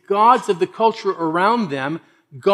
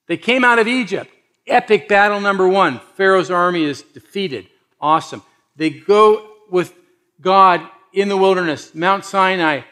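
raised, punchy proclamation; triumphant epic recap; 4 semitones higher, 6 dB louder than usual. Real, not acted. Preacher recaps the escape from Egypt to the congregation, rousing and triumphant. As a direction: announce each victory loudly with pauses between.

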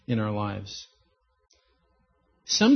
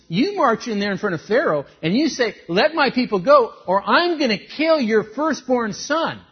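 loud, higher, forceful order; commanding God; 6 semitones higher, 9 dB louder than usual. Retold or imitated. God ordering Moses before Pharaoh, loud and commanding. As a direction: boom out the command with authority. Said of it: "God had told Moses".

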